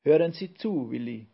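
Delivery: a hint of a tiny professor demanding attention; Brausewein. A narrator's reading. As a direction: pipe up insistently, a touch squeaky. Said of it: "piepste Brausewein".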